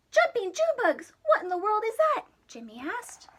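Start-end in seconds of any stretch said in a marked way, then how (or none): 0.1-2.3 higher, louder, fast and amazed; startled exclamation. Acted. Jimmy startled by the rumbling asks the Marsmen. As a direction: blurt it out in surprise.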